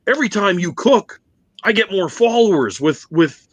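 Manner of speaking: lightly voiced coworker explaining; imitating the laborer. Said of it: "he's like".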